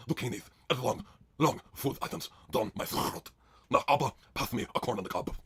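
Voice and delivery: Isla. Acted. Isla welcoming viewers to the show, low halting hosting. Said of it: "it's Isla's deep blow sausage zucchini party".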